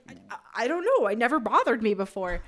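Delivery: flustered. Retold or imitated. Flustered reply to odd question.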